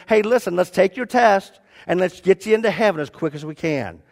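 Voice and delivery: lightly voiced brisk gatekeeper; brisk Saint Peter. Saint Peter voiced hurrying the man.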